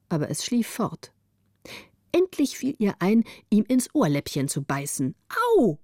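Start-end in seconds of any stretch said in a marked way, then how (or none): 5.6-5.8 a short, loud yelp of 'Au'; sharp cry of pain. Acted. Bitten girl wakes in the dormitory, crying out 'Au'. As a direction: jolt awake with a bitten ear. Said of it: "schrie die Kleine auf".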